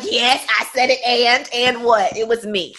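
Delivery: slow, defiant and what; cocky confession, daring them. Retold or imitated. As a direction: own it, unbothered. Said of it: "That's how I move now".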